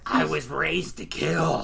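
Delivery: slow, lightly voiced grandma. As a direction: say it slowly as a grandma. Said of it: "the grandma voice".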